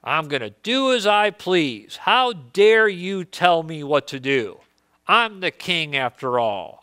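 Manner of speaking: defiant, indignant king voice; angry king. Acted. Uzziah defying the priests, indignant. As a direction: puff up like a proud king. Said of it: "Then Uzziah was angry".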